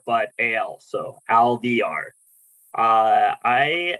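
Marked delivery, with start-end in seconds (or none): 1.3-2.1 Alviar said slowly, like caviar starting with AL; name pronunciation. Shown as a demonstration. New colleague teaches the committee his last name, Alviar pronounced slowly. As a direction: draw out Alviar so it rhymes with caviar. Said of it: "easiest way to pronounce it".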